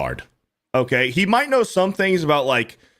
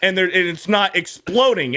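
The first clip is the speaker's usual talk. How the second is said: high, snooty know-it-all voice, starting much higher; mocking Taffer; 5 semitones higher than usual. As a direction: parody a smug expert lecturing on beer. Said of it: "and he's like".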